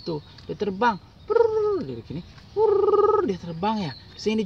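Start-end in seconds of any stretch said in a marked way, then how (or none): 1.3-1.8 high, loud "prrr" wing noise; playful fluttering sound effect; flying trill. Retold or imitated. Imitating a bug flying off. 2.5-3.3 high, loud "prrr" wing noise; playful fluttering sound effect; flying trill. Retold or imitated. Imitating a bug flying off.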